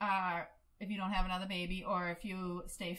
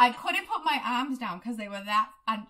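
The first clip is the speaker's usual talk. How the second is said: words pushed out through real laughter, louder; laughing while talking; 7 dB louder than usual. Real, not acted. Laughing at her own story.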